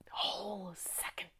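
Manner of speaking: slow, drawn-out whisper; hushed awe. Acted. Survivor recalling the sudden stillness, whispering. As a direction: let the words fade into silence. Recalling silence after the tornado.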